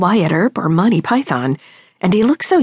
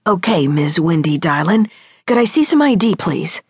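talking through a mouthful of candy; words chewed around gummy bears; mouth full. Acted. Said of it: "he said through a mouthful of what I now recognized as gummy bears".

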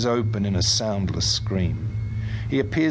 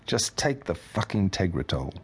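softer, easing off the anger; softening; 2 semitones lower, 4 dB quieter than usual. Acted. Husband pleading with his wife to take her pills, softening. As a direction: let the anger drain out, quieter. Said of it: "he says, softening".

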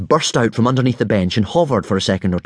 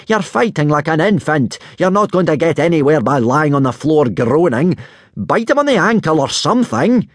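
raised, higher voice of an exasperated coach; exasperated yell; 6 semitones higher, 3 dB louder than usual. A narrator's reading. Teacher urges floored pupil to fight back, exasperated yelling. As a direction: scold him from the sidelines, climbing in pitch. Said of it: "yelled Gobber in exasperation".

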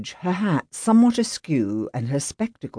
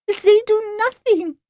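high, slow, indignant French woman; outraged Frenchwoman complaining; French accent, fuming at the police; 5 dB louder than usual. Acted.

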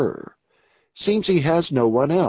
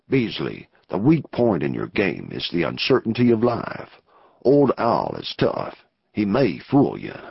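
lower outlaw voice; 5 semitones lower than usual. Acted. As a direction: play the rough outlaw weighing the risk. Narrator voices outlaw Anson.

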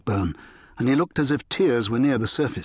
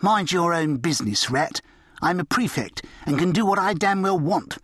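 snarling; 5 semitones higher than usual. Acted.

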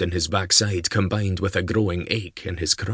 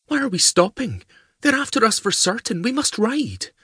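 put-on high, urgent young lady's voice; young woman voice. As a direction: voice the lassie high and pressing. Woman character voiced by male narrator.

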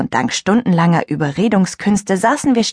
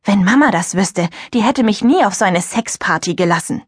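indignant; 2 semitones higher than usual. Acted. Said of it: "so entrüstet".

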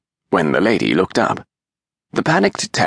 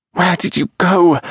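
higher, pleading mother's question; entreating mother; 11 semitones higher, 3 dB louder than usual. A narrator's reading. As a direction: beg the child to explain. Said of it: "the lady entreated".

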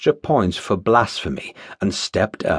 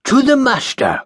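grand toast call; 12 semitones higher than usual. Acted. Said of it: "called Jeremiah Phillips".

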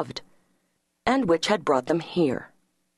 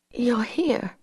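breathy whispered wonder; 6 semitones higher than usual. A narrator's reading. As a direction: barely whisper it, dazed. Dazed woman waking on floor.

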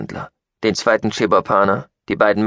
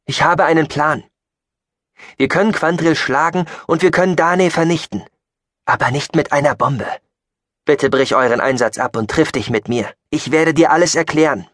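raised, urgent plea; imploring; 7 semitones higher, 4 dB louder than usual. Acted. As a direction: implore him to hear you out. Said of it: "beschwor Chayton ihn". (eindringlich beschwörend, mit erhobener Stimme)

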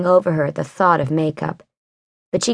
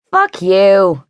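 angry curse; 5 dB louder than usual. Acted. Wren swears at Vincent.

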